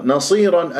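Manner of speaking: نصيرا with a light نون and heavy ص; measured Quran recitation of نصيرا; tajweed recitation. Shown as a demonstration. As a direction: recite نصيرا slowly, ص full and emphatic. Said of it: "النون مرققة".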